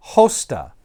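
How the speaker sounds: "Hosta" with an initial h, HOH-stah; rough breather. Shown as a demonstration. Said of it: "we have a rough breather".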